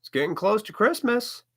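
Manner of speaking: hammed-up parent warning the kids about Santa; threatening parent. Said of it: "threaten the kids by saying".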